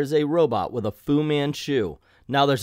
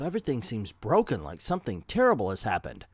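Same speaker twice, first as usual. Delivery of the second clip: softer, lower inner voice; subdued comic-book thought; thinking to himself; 4 semitones lower, 5 dB quieter, faster than usual. Acted. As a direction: muse it privately, understated. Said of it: "thinks to himself".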